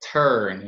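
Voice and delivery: "turn" with a strong puff on the T; impulse on T. Shown as a demonstration. Teacher showing the pronunciation of "turn", with a burst on the T. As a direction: launch "turn" from a firmly released T. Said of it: "Esse T também tem que ter aquela".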